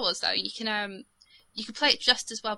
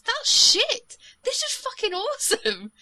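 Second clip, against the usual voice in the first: mock excitement; 12 semitones higher, 4 dB louder, slower than usual. Mocking her own gaming conversion.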